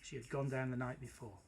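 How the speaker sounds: lively storybook reading; story narration. A narrator's reading. Teacher reading a story to the class, animated narration. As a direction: read it like a bedtime tale, big and bright. Reads story aloud to listeners.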